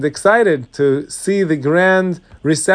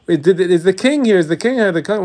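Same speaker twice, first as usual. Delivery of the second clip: higher-pitched, stumbling, repeated question; anxious hurried asking; 4 semitones higher than usual. Acted. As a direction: act out an urgent inquiry after running in. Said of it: "he runs quickly to the hotel".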